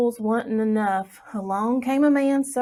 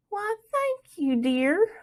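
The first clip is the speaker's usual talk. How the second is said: mama's voice; 11 semitones higher, slower than usual. A narrator's reading. Mama thanking Plug.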